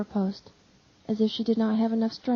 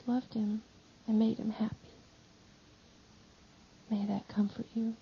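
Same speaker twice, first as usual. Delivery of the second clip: hushed comfort; 4 dB quieter than usual. Acted. Mary comforts weeping John.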